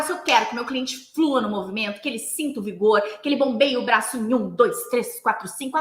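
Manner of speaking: rhythmic counting coach; flowing, vigorous rhythm. Shown as a demonstration. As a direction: drive the movement with a steady beat. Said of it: "Eu vou dar esse ritmo". (ritmo fluido e vigoroso)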